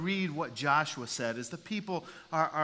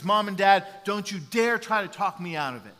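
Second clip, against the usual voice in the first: defiant warning; 5 semitones higher, 10 dB louder than usual. Retold or imitated. Son warns parents before leaving.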